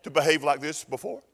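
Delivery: high, prim donkey voice; educated donkey. Acted. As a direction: sound lofty, a bit high. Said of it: "She said".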